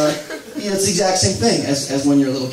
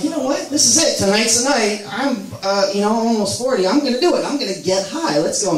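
psyched up; 6 semitones higher than usual. Retold or imitated. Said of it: "I'm like".

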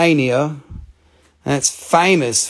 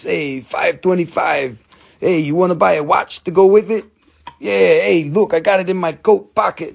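street hustler. Pretend. Plays street seller hawking watch.

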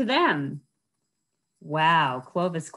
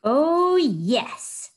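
loud, high boast; proud; 9 semitones higher, 6 dB louder than usual. Acted. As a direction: say it with puffed-up pride. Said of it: "said Clovis proudly".

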